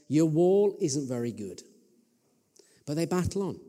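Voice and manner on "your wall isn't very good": mocking. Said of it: "that kind of mocking voice that says".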